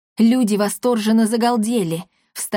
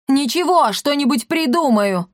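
barking retort; 5 semitones higher than usual. Acted. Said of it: "рявкнул мэр".

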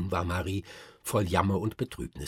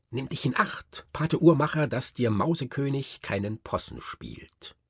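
put-on cheeky boy calling; 6 semitones higher, 4 dB louder than usual. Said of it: "da rief Fritz".

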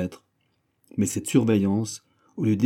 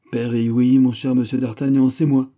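joie émue; 4 semitones higher, 6 dB louder than usual. A narrator's reading. Perry heureux de revoir.

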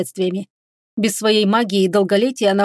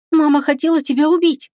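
horrified whisper; 7 semitones higher than usual. A narrator's reading. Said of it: "в ужасе прошептала она".

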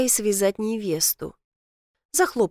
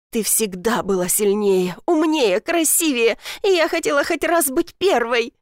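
tearful; 3 semitones higher than usual. Acted. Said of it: "Её глаза блестели от слёз".

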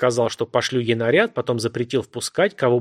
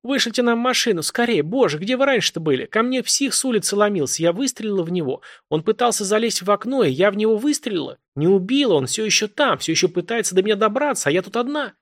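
high, frantic pleading; a terrified caller begging for help; a woman voiced high and desperate on the phone; panicked woman; 8 semitones higher than usual.

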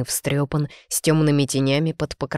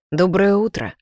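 lightly voiced hoarse man, higher and louder; a sudden, louder hoarse greeting; hoarse man's greeting; 4 semitones higher, 4 dB louder than usual. A narrator's reading. Man breaks the morning silence to greet her, a touch hoarse. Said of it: "хриплый голос мужчины".

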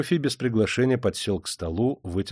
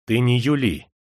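mildly menacing warning; a touch of threat; threatening; 2 semitones higher, 3 dB louder than usual. A narrator's reading. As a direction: warn him off firmly. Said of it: "пригрозил Прокофий".

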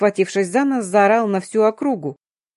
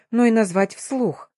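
ordinary delivery

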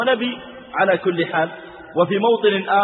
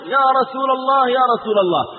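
urgent call; 6 semitones higher than usual. Acted. Man in the mosque calling the Prophet, urgent raised cry. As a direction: call out to interrupt the sermon. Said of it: "وهذا الرجل يصرخ".

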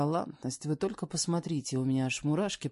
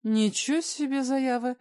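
higher, louder exclamation; woman shocked by his demand, raised voice; indignant surprise; 9 semitones higher, 5 dB louder than usual. Acted. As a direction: react in outraged disbelief. Shocked retort in a quarrel.

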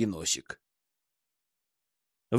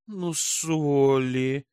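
huffing; much slower than usual. A narrator's reading. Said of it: "пыхтела Риса".

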